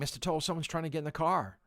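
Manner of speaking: put-on frantic, panicky, alarmed screaming. Retelling how a student in the back seat screamed: imitating a student screaming. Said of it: "She was screaming".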